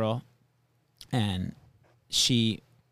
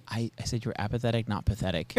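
calmly imitating her, a little softer; calm retort; 5 dB quieter than usual. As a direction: correct him calmly, quietly. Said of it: "And very calmly, she said".

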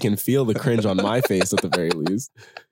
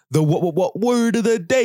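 announcer voice; 8 semitones higher, 4 dB louder than usual. Acted. Segment announcement.

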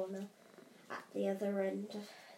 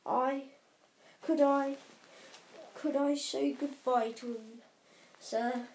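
big gruff giant voice; 2 semitones higher, 6 dB louder than usual. Acted. Hagrid asking to say goodbye.

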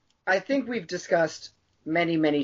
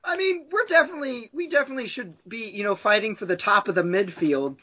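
nervous hedging; 4 semitones higher, faster than usual. Retold or imitated. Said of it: "the team principal was like".

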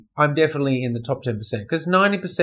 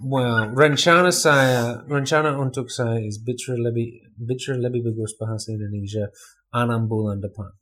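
low, soft Indonesian with a learner's accent; careful attempt at an Indonesian accent; practised Indonesian accent; 5 semitones lower, 4 dB quieter than usual. Shown as a demonstration. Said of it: "I do need to practice my accent".

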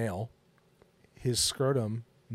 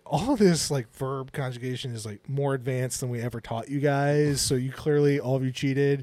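mock irritated teacher, a bit louder; imitating the pissed-off professor; annoyed professor; 2 semitones higher, 4 dB louder than usual. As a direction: scold the class in a half-played huff. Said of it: "she's, like, pissed".

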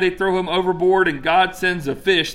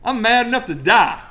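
petulant Jonah; 6 semitones higher than usual. Retold or imitated. Jonah's angry reply to God.

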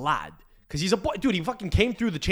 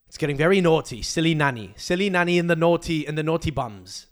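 mocking British schoolchild talk; 4 dB louder than usual. Podcast host mocking how Brits talk, mock British accent. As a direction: put on a silly, naughty British accent. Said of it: "Why do the Brits talk like school children?".

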